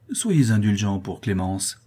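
slow, sugary and falsely gentle; pleading sweetly while hiding contempt; honeyed voice. Acted. Madame Roland sweetly pleading with the father, honeyed. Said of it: "de sa voix mielleuse".

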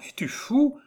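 very high, concerned question; tender compassion. A narrator's reading. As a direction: ask it in worried pity. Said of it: "plein de tendre compassion". (tendre compassion, voix très aiguë)

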